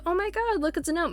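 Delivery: high-pitched mock exclamation; acted excited discovery. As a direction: act out a delighted spotting. Acts expected reaction of gnome spotters.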